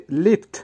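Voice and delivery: লিফট set apart, crisp final consonants, rising; teacher's isolated, careful Russian লিফট; Russian pronunciation of লিফট. Shown as a demonstration. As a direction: say লিফট carefully as a model word. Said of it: "তবে উচ্চারণ একটু লক্ষ্য করেন".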